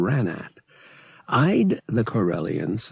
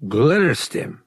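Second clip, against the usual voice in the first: Glitterstim? jumps higher and louder in shock; voice scaling up; 6 semitones higher, 5 dB louder than usual. Acted. Dealer hearing Han's offer, voice shooting up in surprise. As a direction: blurt Glitterstim? as a startled question. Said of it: "The man's voice scaled up".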